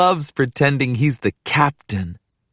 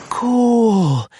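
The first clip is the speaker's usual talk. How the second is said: higher, amazed cool; excited Pete; 8 semitones higher than usual. Acted. Pete watching Old Faithful erupt, excited and higher. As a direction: marvel at the water shooting up.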